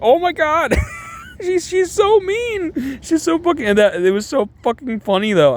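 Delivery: very high squeal through laughter; real, breathless-with-laughter high voice; losing it laughing. Real, not acted. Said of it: "I lost it".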